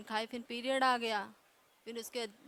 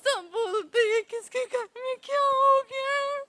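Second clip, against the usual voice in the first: loud, high, sobbing through the words; real tears of relief spilling over; crying out in relief, high and much louder; 9 semitones higher, 10 dB louder than usual. Real, not acted. Weeps telling mother's joy.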